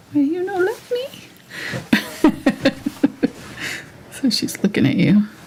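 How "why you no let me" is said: high, squeaky, confused cat voice. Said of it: "so confused".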